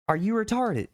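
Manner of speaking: high, outraged disbelief; exasperated squeal; incredulous outburst. Real, not acted. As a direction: fire it at them in disbelief. Outraged question to Activision.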